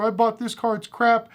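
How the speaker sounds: high whiny complaint, mocking; mock crying whine. Buyers mocked for whining about a bad car, mock crying. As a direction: sneer it like a sore loser. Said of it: "like, crying".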